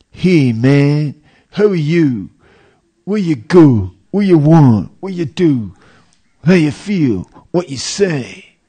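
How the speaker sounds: lightly mocking casual English speakers; clipped street talk. Preacher mimicking lazy slang to his audience. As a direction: toss off each short question carelessly. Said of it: "you can speak in one syllable".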